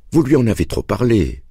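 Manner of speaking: a light reproachful tone from the mother. A narrator's reading. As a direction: gently scold the boy's father. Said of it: "dit-elle sur un ton de reproche". (ton de reproche léger)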